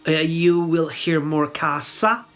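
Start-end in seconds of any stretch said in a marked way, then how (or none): 1.5-2.3 casa with a sharp S, "KAH-sa"; unvoiced S. Shown as a demonstration. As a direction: say casa as in central and southern Italy, S unvoiced. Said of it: "with the unvoiced S".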